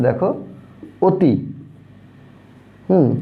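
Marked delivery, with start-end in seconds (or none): 1.1-1.3 অতি with the অ said like ও, "oti"; closed o demo. Shown as a demonstration. Teacher showing pupils that অতি starts with an o sound. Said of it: "এখানে অ এর উচ্চারণটা কিন্তু এরকম হয়ে যাচ্ছে".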